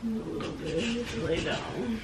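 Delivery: soft, feeble put-on sickness; feigned weakness. Pranking boyfriend, asking to lie down, feigned weakness. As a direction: play poorly, barely projecting.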